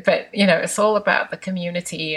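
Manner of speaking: put-on Desi accent, the word all stressed and falling. Voicing her parents' view on community in a mild Desi accent. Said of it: "I have to say it in my Desi accent".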